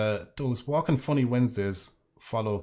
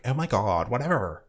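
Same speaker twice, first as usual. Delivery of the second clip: mock Californian airhead accent; obnoxious Californian girl. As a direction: lightly parody a vapid Californian girl. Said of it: "obnoxious Californian stupid girl".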